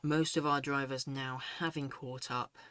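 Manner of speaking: winded after running, still out of breath. Real, not acted. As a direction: talk while catching your breath. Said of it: "Sorry, I'm out of breath".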